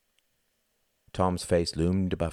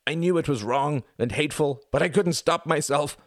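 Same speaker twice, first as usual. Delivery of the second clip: rising, louder sobbing plea; tearful confession building higher and louder; 9 semitones higher, 5 dB louder than usual. A narrator's reading. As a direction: break down while confessing. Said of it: "he sobbed".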